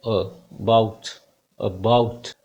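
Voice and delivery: about with a weak first a; teacher models about; weak schwa demo. Shown as a demonstration. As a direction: say about with a short uh. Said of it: "जो शुरुआत में बोलते हैं अ".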